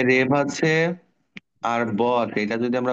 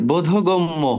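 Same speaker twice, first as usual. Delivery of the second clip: বোধগম্য drawn out slowly, syllable by syllable; slow model word; 4 semitones higher, 4 dB louder, slower than usual. Shown as a demonstration. Teacher slowly sounds out বোধগম্য for students. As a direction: stretch বোধগম্য so the class can follow. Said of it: "তারপর দেখো".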